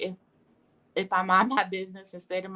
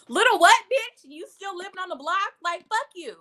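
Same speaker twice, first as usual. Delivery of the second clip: much higher, laughing mock rage; hammed-up fury; 9 semitones higher, 6 dB louder than usual. Clapping back at a doubter, high mock rage. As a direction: squeal it like a comic angry diva. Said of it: "That's how you should feel".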